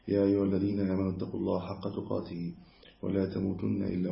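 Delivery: even, measured monotone recital; formal opening recitation. Acted. Lecturer opening a hadith lesson, formal recitation. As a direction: recite the set opening formula in a steady flow.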